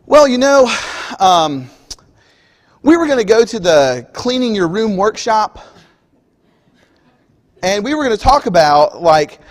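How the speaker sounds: a hint of a sheepish kid stalling; excuse-making kid. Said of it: "And your kid goes".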